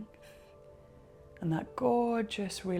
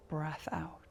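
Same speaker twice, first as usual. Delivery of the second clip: softer whispered breath out; a whispered cue to exhale; 3 semitones lower, 6 dB quieter than usual. Acted. Exhale cue during breathing exercise.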